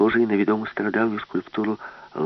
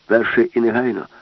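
louder, firm order; commanding demand; 2 semitones higher, 6 dB louder than usual. Acted. Professor orders the robot master, loud firm demand. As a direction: give the order firmly.

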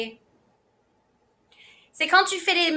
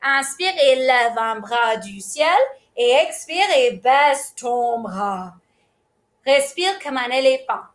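calm breathing guide; 3 semitones lower, slower than usual. Shown as a demonstration. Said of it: "on va faire l'éléphant".

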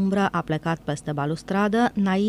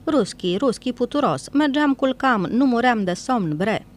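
louder, higher mocking jeer in a foreign accent; mean, thin taunt; 6 semitones higher, 4 dB louder than usual. A narrator's reading. Nail mocks Ifim from the barge, loud and jeering. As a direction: sneer at him like a neighing colt. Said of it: "râsul rău al turcului, subțire ca un nechezat".

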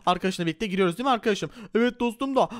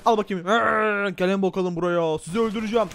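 hammed-up brute threatening; lightly voiced menacing Hulk. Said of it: "dostum Hulk".

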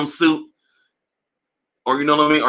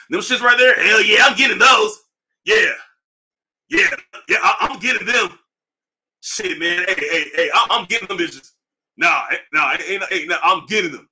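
mock broke hypebeast; 3 semitones higher than usual. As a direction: hype yourself up like you can't afford to miss. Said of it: "Here's a motherfucker with no money right here".

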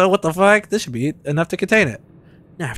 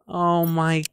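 breathy oh my god under breath; exasperated whisper; slower than usual. Real, not acted. Gamer whispering after a frustrating moment. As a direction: whisper it in disbelief.

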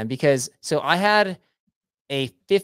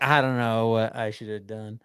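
mock whiny friend; 5 semitones lower, 5 dB quieter than usual. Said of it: "you're like".

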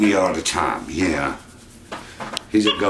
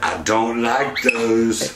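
dog's voice; 4 semitones higher, much slower than usual. Retold or imitated. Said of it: "He's like".

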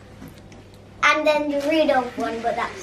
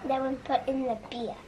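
much softer, hushed voice; quiet; 3 semitones lower, 9 dB quieter than usual. Real, not acted. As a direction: keep it down to a hush. Quiet after shushing.

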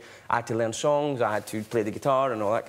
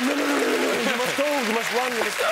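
panicked casting panel; 11 semitones higher, 3 dB louder, faster than usual. Retold or imitated. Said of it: "And they were like".

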